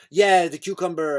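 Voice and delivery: put-on eager reply in a botched French accent; mock French accent. Comedian mimicking her answer to the helper, French accent. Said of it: "that's more French".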